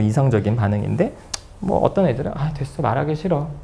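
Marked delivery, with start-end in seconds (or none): 2.3-3.5 put-on softer, withdrawn teen mumble; acted-out glum refusal; mock sullen. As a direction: shut mom out quietly, sulking. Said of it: "이렇게 시무룩하게 있을 수는".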